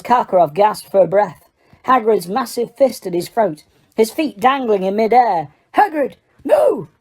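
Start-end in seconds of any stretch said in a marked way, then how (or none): 5.7-6.9 high, slow urgent shout. A narrator's reading. Dumbledore stopping Hagrid from choking Karkaroff, urgent shout. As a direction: stop him with a cry. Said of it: "Dumbledore shouted".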